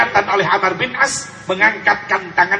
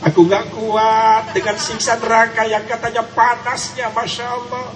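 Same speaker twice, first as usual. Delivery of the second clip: tearful plea; 3 semitones higher than usual. Shown as a demonstration. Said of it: "Coba lagunya sentuhkan ke hati kita".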